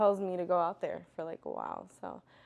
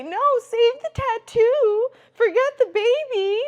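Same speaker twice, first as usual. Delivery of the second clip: mock sarcastic reply; 17 dB louder, slower than usual. Mock reply she never gave.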